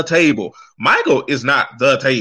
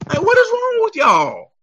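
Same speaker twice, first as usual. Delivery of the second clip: exasperated shout. Real, not acted. Ranting at fans who trash a singer: high exasperated shout. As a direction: throw up your hands and yell it.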